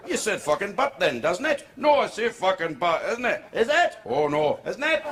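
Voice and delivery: high, climbing Welsh sing-song; drunk Welshman. Acted. Drunk Welshman argues in circles, high Welsh accent. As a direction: bicker in a rising Welsh lilt, tag after tag. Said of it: "talking to a Welshman pissed".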